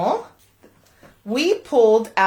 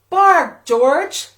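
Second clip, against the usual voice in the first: mom calling; 5 semitones higher, 5 dB louder than usual. Acted. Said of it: "George's mom said".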